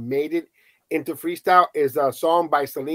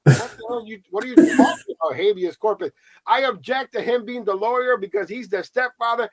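irritated judge; 7 semitones higher than usual. Retold or imitated. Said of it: "And she's like".

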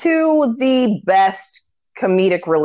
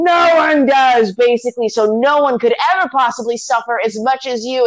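outraged declaration; 5 semitones higher, 3 dB louder than usual. Retold or imitated. Storyteller voicing a jealous villain's verdict, outraged declaration. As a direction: stretch it out high and emphatic. Acted villain's outburst in retelling.

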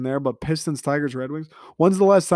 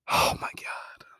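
whispered oh my god; 8 dB quieter, slower than usual. Real, not acted. Exasperated sigh over Detroit sports.

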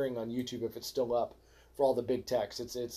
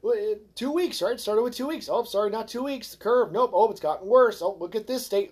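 a hint of a higher, mocking official voice; 5 semitones higher than usual. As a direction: lightly parrot the authorities' excuses. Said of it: "now they're gonna tell you".

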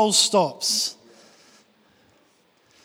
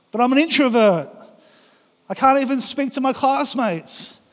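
whiny excuses; 5 semitones higher, 4 dB louder than usual. Retold or imitated. The preacher's excuses to God.

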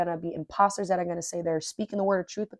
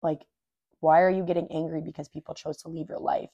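scolding myself. Retold or imitated. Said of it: "I had to check myself and be like".

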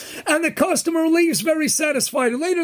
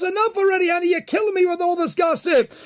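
mock shout; 3 semitones higher than usual. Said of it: "And he shouts".

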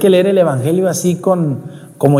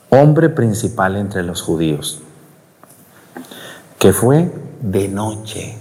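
slow, lower, savouring each word; careful slow reading; 4 semitones lower than usual. Shown as a demonstration. Priest rereading the gospel properly: slow and low. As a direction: read it slowly, weighing the words. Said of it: "Se los voy a volver a leer".

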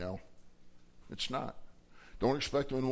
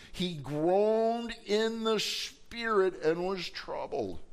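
slow, raised, drawn-out reading; dramatic scripture reading; 6 semitones higher, much slower than usual. A narrator's reading. Preacher reading how Jesus groaned, dramatic and slow. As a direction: stretch the words with heavy weight. Preacher intones the emotional verse.

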